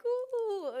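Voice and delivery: high-pitched playful "ooh"; curious ooh. Acted. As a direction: coo it like watching an experiment unfold. Playful curiosity about an emotion experiment.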